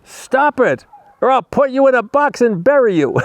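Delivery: very high-pitched mock rant; retold yell. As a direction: sustain a high comic yell to the end. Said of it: "And he yells at her".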